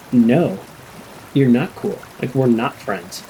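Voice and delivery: low, dismissive brush-off; retold cold rejection. Retelling friend's cold rejection.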